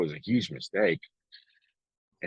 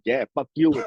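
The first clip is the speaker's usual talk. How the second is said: louder, higher, daughter's defiant jab; mock defiance; 7 semitones higher, 7 dB louder than usual. Teen daughter defies her dad, mock defiant. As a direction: throw it back at him like a stubborn teen. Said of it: "They're like".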